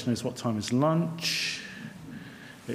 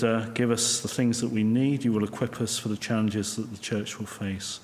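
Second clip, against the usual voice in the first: saying grace. Real, not acted. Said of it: "So let's pray".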